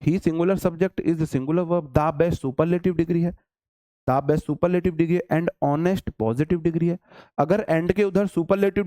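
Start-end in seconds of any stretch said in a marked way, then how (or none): 0.0-7.0 slow analysis. Shown as a demonstration. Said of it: "इसमें क्या दिक्कत है?".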